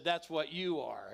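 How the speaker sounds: loud, slow, deliberate accusation; slow loud retold rebuke. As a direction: lay it on him slowly and loudly. Confronting Conley at his desk.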